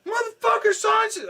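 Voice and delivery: very high, loud outburst; hammed-up furious shout; indignant yelling. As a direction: re-enact an outraged telling-off. Retold yelling at robber.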